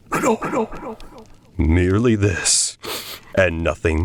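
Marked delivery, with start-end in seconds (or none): 0.1-1.0 high, faint echo from afar. A narrator's reading. The dark answers him, a faint far echo. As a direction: let it float back like a distant echo. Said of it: "an echo murmured back".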